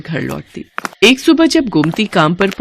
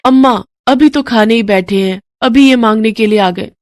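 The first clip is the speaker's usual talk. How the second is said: put-on higher, louder annoyed young wife; daughter-in-law; 5 semitones higher, 4 dB louder than usual. Daughter-in-law grumbles to Gomti about beggars, irritated. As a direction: complain sharply to mother-in-law.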